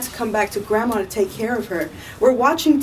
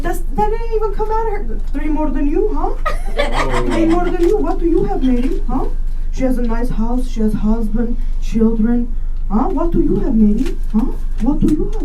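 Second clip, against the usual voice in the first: mocking nagging relative; 5 semitones higher than usual. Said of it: "I'm like".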